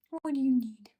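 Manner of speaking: high, loud what do you need, stressing "you"; exasperated loud question. Real, not acted. Repeated question to pet.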